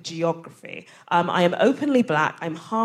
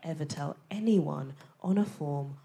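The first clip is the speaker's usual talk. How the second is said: whispered warning; whispered insider advice; conspiratorial whisper; 2 semitones lower, 9 dB quieter than usual. Acted. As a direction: lean in and whisper the secret. Warning fellow comedians.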